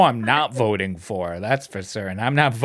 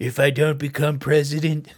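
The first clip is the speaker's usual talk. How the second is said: breathy whisper, mock confession; hushed mock Trump whisper; whispered impression. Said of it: "He's like".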